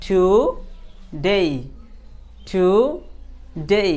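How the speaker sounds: "today" in two drawn-out syllables ending in a long ay; drilled "ey" ending. Shown as a demonstration. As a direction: model "today" slowly, stretching "day". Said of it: "তাহলে আপনি বলেন".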